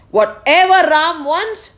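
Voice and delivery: high, slow, emphatic father; indulgent decree. Acted. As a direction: decree it slowly and grandly. King grandly gives in to son.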